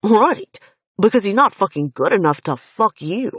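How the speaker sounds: loud sarcastic jab; bitter retort. Acted. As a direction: throw it back with scorn.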